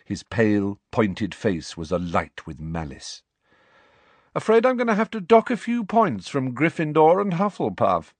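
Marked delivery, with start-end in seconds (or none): 4.3-8.1 higher, lazy arrogant drawl. A narrator's reading. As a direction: stretch it out, smug and bored. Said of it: "he drawled".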